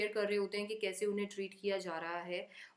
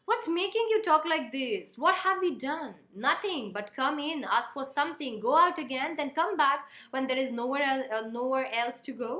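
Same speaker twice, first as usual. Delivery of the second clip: family row on stage, loud; acted quarrel; 5 dB louder, much slower than usual. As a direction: fire back, hurt and loud. Children protest, mother retorts.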